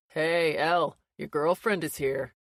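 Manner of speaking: loud teasing call up the stairs; shouting. A narrator's reading. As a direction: yell it up to the upstairs room.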